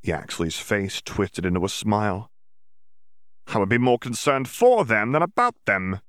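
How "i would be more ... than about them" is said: snorting. Acted. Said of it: "he snorted".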